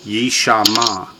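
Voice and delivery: "yishama" slowly, all vowels full; slow teaching model of "yishama"; three full syllables. Shown as a demonstration. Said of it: "Three full syllables".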